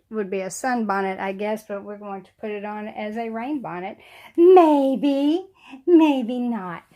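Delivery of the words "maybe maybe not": teasing, higher and louder; playful. Real, not acted. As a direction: toss it off with a playful lilt. Teasing about the rain bonnet.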